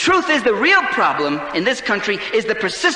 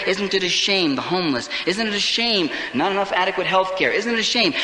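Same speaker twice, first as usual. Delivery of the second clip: mock lament; 4 semitones lower than usual. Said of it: "like the liberals say".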